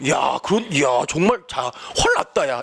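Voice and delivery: low-key admiring mumble of disbelief; believable fake admiration. Shown as a demonstration. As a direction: feign being impressed without overacting. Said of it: "이렇게 해줘야지". (오버 없이 슬쩍 감탄하는 척)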